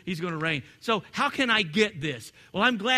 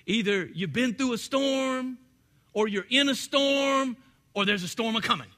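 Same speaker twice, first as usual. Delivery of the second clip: put-on old preacher quote; 4 semitones higher than usual. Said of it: "the old preacher said".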